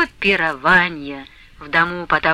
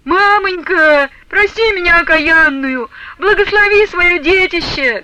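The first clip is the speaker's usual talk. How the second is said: crying plea; 10 semitones higher, 5 dB louder than usual. A narrator's reading. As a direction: sob out the plea. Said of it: "гласила Прасковья Потаповна".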